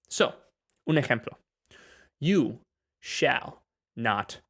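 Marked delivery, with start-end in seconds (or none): 2.2-4.4 Gandalf quote. Retold or imitated. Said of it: "Como dice Mae de la película".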